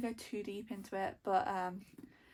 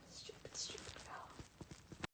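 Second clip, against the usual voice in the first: slow, very soft whispered scolding; exasperated whisper; 13 dB quieter, much slower than usual. Real, not acted. Reader scolding the girl in the book, exasperated whisper. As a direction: whisper your dismay under your breath.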